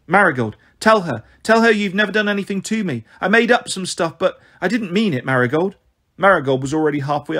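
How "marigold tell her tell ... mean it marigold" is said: put-on high, urgent child's voice; desperate child pleading, raised pitch. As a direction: beg for backup, anxious and insistent.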